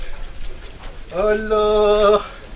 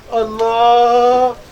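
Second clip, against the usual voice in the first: drawn-out sigh of delight; 3 dB louder, much slower than usual. Acted. Man savoring his buffalo.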